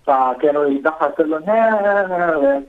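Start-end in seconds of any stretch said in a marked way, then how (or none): 1.4-2.6 mocking laugh. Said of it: "هيك بيتمسخروا".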